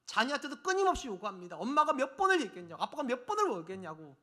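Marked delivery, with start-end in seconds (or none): 1.6-2.8 raised, louder scolding mother; mock nagging mom. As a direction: nag like an exasperated mom. Parent nagging child, mock scolding. (잔소리하는 엄마 흉내, 높고 큰 목소리)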